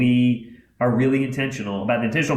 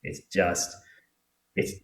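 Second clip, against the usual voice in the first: sincere hush; 5 semitones lower, 6 dB quieter than usual. Real, not acted. Heartfelt closing advice.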